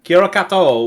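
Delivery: Maori greeting. Shown as a demonstration. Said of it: "My terrible Aussie accent".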